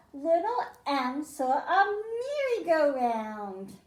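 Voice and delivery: lively, sing-song storybook read-aloud; reading to children. Acted. Teacher reading a picture book to the class, lively and sing-song. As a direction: read it like story time for little kids.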